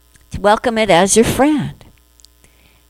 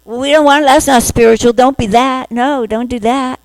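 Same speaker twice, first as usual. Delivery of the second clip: scolding inner critic; 4 semitones higher than usual. Retold or imitated. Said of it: "the other part going".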